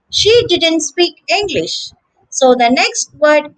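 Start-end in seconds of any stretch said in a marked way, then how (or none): 0.1-1.9 "didn't" with the T dropped before "like", slowly; silent T demo. Shown as a demonstration. Teacher showing connected speech, no T. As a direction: run "didn't" into "like" with no T. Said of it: "the T has become silent".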